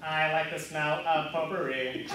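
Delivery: even robotic monotone. Acted. Android answers host's categories, robot voice. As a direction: repeat it like a stored recording. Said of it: "record them in a robot voice".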